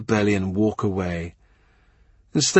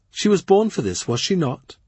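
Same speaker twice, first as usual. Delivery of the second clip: cool sister voice; 8 semitones higher than usual. Acted. Mary Howard, no sisterly pride.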